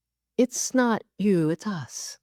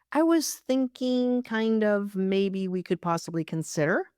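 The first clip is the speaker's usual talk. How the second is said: hedging; 3 semitones higher than usual. Shown as a demonstration. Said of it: "the triple qualifier".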